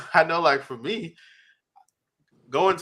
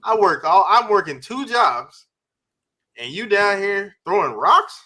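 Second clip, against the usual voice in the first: scolding mother; 5 semitones higher, 4 dB louder, slower than usual. Retold or imitated. Mother scolding son, retold.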